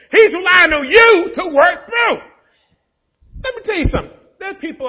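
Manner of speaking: high, loud preaching shout with a laugh. Real, not acted. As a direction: belt it out to the congregation. Climax of sermon, shouting.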